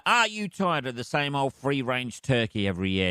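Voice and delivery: lightly voiced ad read. Host reading a sponsor ad to viewers, light ad voice. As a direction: sell it like a radio ad. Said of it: "bit of advertising to read".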